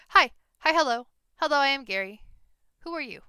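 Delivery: loud, high goblin chatter. Acted. Goblin Gary greets Kitty, loud and high. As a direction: greet them like an eager little goblin. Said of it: "the goblin shouts".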